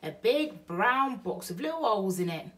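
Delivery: Bill describes the box to Betty, matter-of-fact; Burglar Bill. Acted. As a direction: lay it out plainly for her. Bill's line, then Betty echoes.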